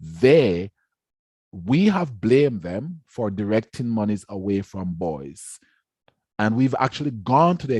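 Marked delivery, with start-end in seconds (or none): 0.0-5.6 deliberate, with weighted pauses; very slow repeat. Shown as a demonstration. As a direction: say it slowly and emphatically, pausing after the first word. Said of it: "say that again very slowly".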